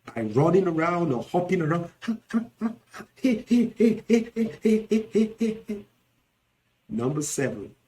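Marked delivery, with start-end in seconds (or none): 3.2-5.8 rapid high string of short yelps; hammed-up flustered yelping; dramatic female cries. Shown as a demonstration. Teacher imitating women's extra drama, frantic cries. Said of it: "add some extra drama by running around".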